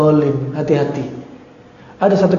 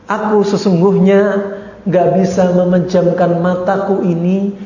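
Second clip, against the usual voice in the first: tender pleading wife; 3 semitones lower than usual. Acted. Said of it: "Apa kata istri?".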